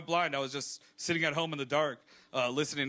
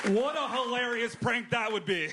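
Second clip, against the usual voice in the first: laughing; 5 semitones higher than usual. Acted. Laughing through the joke.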